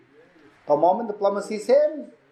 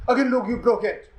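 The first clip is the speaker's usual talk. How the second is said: higher-pitched mock accusation; accusing; 6 semitones higher than usual. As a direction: act out pouncing with fresh blame. Plumber accuses him again.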